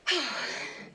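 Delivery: long breath out to settle; slow steadying exhale; deep calming sigh. Real, not acted. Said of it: "Take a few deep breaths".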